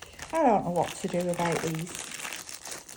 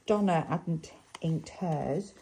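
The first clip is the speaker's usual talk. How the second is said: Lancashire accent, with the r in "hers" rolled and the h sounded; normal Lancashire accent; 2 semitones lower, slower than usual. Shown as a demonstration. Crafter correcting herself for viewers, in her own Lancashire accent. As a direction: say "Donna hadn't inked hers" slowly in broad Lancashire. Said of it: "let's say it in my normal Lancashire accent".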